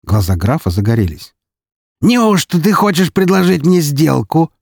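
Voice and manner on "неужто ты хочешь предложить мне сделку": high, drawn-out, intrigued question; keenly interested. A narrator's reading. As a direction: pounce on the offer with eager curiosity. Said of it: "Вскинулся он с таким интересом". (с живым интересом, высоко и протяжно)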